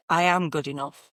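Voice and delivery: firm, settled statement of belief; rock solid. Shown as a demonstration. Coach shows the client's final solid conviction, firm and settled. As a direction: plant it as an unshakeable fact. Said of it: "That's solid. That's not going anywhere".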